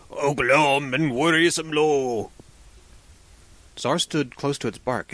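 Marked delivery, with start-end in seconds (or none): 0.1-2.3 slow, drawn-out gloomy moan; sighing tree. A narrator's reading. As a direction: moan it slowly as a woeful tree. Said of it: "a sighing voice".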